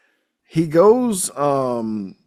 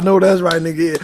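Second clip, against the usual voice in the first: hyped agreement; 6 semitones higher, 8 dB louder than usual. Retold or imitated.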